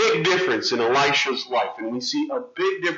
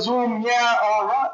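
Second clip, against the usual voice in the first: wizard's magic word; 6 semitones higher than usual. Acted. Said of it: "the wizard said".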